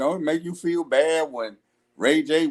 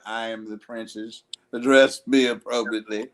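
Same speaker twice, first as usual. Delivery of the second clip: mock princess; 7 semitones lower than usual. Mocking a haughty princess.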